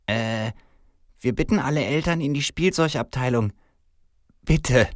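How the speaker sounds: high-voiced, hesitant store announcer; store loudspeaker announcement. A narrator's reading. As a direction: announce haltingly over the store speakers. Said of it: "ertönt eine Lautsprecherdurchsage".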